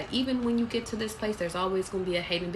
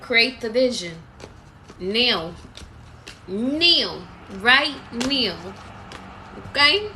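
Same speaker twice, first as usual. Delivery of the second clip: loud, higher barked orders, half in jest; mock commanding shout; 3 semitones higher, 6 dB louder, much slower than usual. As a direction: play the drill sergeant demanding it now. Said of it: "No, I'm just playing".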